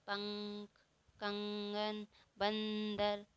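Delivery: पंख, कंगन, बंदर with a drawn-out nasal hum; nasal anusvara. Shown as a demonstration. Teacher showing the sound made through the nose, nasal anusvara. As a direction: linger on the nasal in each word. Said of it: "इसका उच्चारण नाक से होता है".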